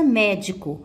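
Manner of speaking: médico with a strong first syllable; médico, weight up front on "mé"; stress on MÉ. Shown as a demonstration. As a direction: lean on "mé" in médico. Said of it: "o mé é a sílaba tônica".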